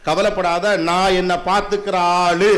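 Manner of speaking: gentle, unhurried promise to take care of yourself; reassuring mother. Retold or imitated. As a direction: settle a worried mother slowly. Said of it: "அப்படின்னு நம்ப வை".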